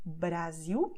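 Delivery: Brasil with a simple tongue-tip R; slow Brasil with a single tapped R. Shown as a demonstration. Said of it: "with the tip of your tongue".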